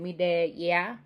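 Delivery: Jamaican phrase with rising end; light Jamaican patois demo. Shown as a demonstration. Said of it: "elements of Jamaican patois".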